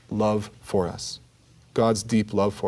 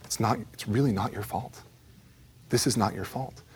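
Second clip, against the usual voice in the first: soft insistence; 6 dB quieter than usual. Retold or imitated. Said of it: "keeps saying it".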